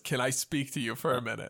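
calm, lightly acted request; understated, composed conductor. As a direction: ask quietly and evenly. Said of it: "the conductor calmly follows you".

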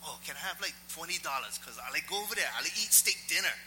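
lightly imitated local beggar; lightly voiced begging stranger. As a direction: ask casually for a handout, imitating him. Imitating stranger asking for money.

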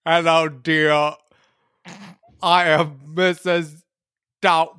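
Arnold doing bad British. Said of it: "trying to be like Arnold Schwarzenegger trying to do a bad British accent".

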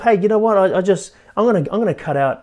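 pumped-up vow to yourself; eager resolution. Retold or imitated. Telling yourself you'll quit meat, eager and loud. Excited self-promise about new discipline.

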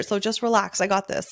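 mildly exasperated brush-off; frustrated outburst. Retold or imitated. Photographer imagining venting at a client, mildly frustrated. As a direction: push back with a touch of frustration. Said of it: "in a frustrated way".

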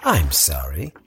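mock apology, sharp high sneer on calendar; sarcastic. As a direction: pour on the fake sympathy. Mocking a reluctant companion.

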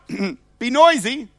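preacher urging his church to be loud; playful call. Shown as a demonstration. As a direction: flip the sign, cheerfully. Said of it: "Mine's like".

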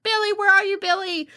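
high, anguished call for a lost son, fading at the end; imitating a frantic dad searching; father crying out. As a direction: call out for your missing boy. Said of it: "the father's crying out for his baby".

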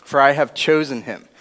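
measured Bible reading to the group; a steady reverent reading of Genesis; scripture reading. Acted. Reads Genesis aloud.

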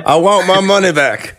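high, slow put-on patient voice; joking as a patient demanding a refund, slow and high; mock demanding patient. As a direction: drag it out like a whiny patient.

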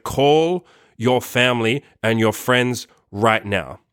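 slow, firm, clear instruction; serious, direct command. Retold or imitated. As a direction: lay down each word slowly and firmly. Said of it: "serious and direct".

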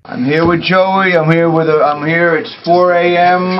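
slow, loud mock announcement; hamming it up for the camera; crazy radio bit. Comedian clowning loudly off the air for the camera lens. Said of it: "being crazy".

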